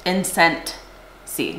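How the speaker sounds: INCENSEY said slowly, syllable by syllable; slow down and separate the parts of "Incensey"; "Incensey" drawn out in careful pieces; careful clarification. Shown as a demonstration. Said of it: "not sensey".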